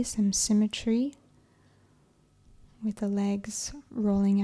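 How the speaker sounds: calm, unhurried yoga nidra guidance; measured, even-toned relaxation voice; guided meditation. Acted. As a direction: ease them into relaxation with long pauses between phrases.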